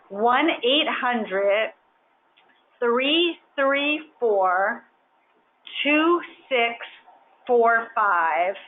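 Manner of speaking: slow, carefully spaced digits; infomercial voice. Shown as a demonstration. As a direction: read the number slowly like a TV ad. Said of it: "now I really sound like an infomercial".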